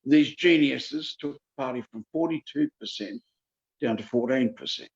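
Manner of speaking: measured, deliberate restatement; slow repeat. Shown as a demonstration. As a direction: repeat it slowly for emphasis. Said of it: "I'll repeat that slowly".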